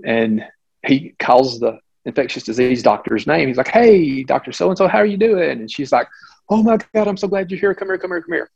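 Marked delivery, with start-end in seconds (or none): 3.7-5.6 cheerful greeting. Retold or imitated. Surgeon greets a colleague. 6.5-8.5 higher, frantic, relieved to see him; imitating the frantic colleague; frantic relief. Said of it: "she's talking so fast".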